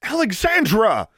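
high, slow shouted name. A narrator's reading. Brian shouts in her ear, a high call. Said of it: "Someone shouted in her ear".

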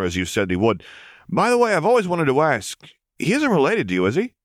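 easygoing henchman brushing off a nuisance; lightly voiced vampire. The vampire reports.

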